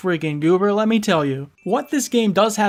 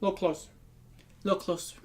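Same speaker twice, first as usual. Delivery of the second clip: cupped hand whisper; 10 dB quieter, much faster than usual. Acted. Drawing viewer in to confide.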